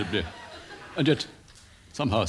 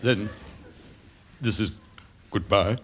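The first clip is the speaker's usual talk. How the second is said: melodramatic Coward style; 8 semitones higher than usual. Acted. Coward parody continues.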